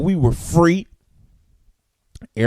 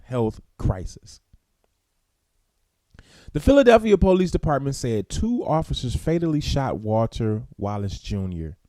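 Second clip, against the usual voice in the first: news story read-aloud; 3 semitones lower, 4 dB quieter than usual. Real, not acted.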